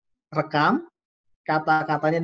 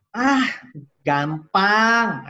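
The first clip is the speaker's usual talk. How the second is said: dismissive participant; 3 dB louder, much slower than usual. Acted. Acted participant dismissing task as easy.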